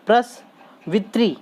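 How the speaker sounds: "प्रसवित्री" slowly, split as pras-vitri, ending in a clear tree; careful "tri" ending. Shown as a demonstration. Teacher demonstrating to students, "प्रसवित्री" slowly with a clear tri ending. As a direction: spell out "प्रसवित्री" by sound, slow, with a full ee at the end. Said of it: "री की मात्रा है तो वित्री".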